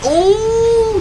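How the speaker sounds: high, drawn-out oh of shock; surprised gasp. Real, not acted. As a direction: gasp at the sudden split. Fight swings suddenly.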